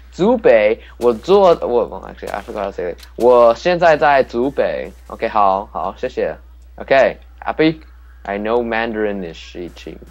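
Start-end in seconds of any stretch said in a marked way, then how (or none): 0.1-0.8 Zhubei in a Mandarin accent. Shown as a demonstration. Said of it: "or in a more Asian accent". 1.0-6.4 Mandarin accent. Shown as a demonstration. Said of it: "or in a more Asian accent".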